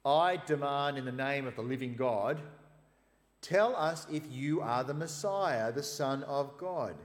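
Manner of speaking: loud and slow, every word weighed; solemn loud demand. Acted. High priest demanding Jesus declare himself, loud and slow. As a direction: command him in God's name, slowly.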